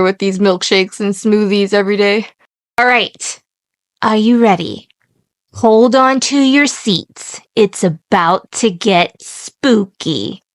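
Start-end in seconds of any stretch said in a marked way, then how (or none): 5.5-10.4 slow, drawn-out teaser; spooky build-up. Pretend. Host warning co-host the tale gets spooky, slow build-up. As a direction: stretch it out for playful suspense.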